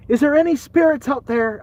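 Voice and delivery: high, loud mock Irish Amish ghost hunter; Irish Amish accent. Amish ghost hunter calling out to spirits, put-on Irish accent. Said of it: "change the accent around".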